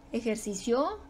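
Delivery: Ejercicio as e-jer-ci-CIÓ; questioning Ejercicio with the weight moved to the final CIO; stress on last syllable. Shown as a demonstration. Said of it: "¿O cómo es?".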